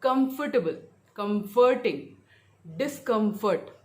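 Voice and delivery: spaced word list with "com" stressed in comfortable, comforting, discomfort; stress on root COM. Shown as a demonstration. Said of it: "कम पे रहेगा".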